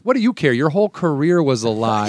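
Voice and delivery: retold taunting retort. Buddy taunts back in retold quarrel.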